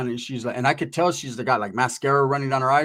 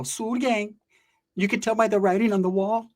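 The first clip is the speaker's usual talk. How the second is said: high dramatic movie-gangster announcing; Tommy Guns style; 5 semitones higher than usual. Pretend. Teller contrasting the big guy with movie gangsters: hammed-up movie-gangster delivery. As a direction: say it like a mobster trailer. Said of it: "didn't say it like Tommy Guns".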